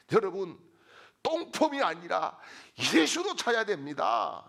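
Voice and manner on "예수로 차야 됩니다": high, loud shouted exhortation; preacher crying out to rouse the congregation; full-force preaching. Real, not acted. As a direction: build to a ringing shout, phrase after phrase. Preacher's climactic repeated exhortation.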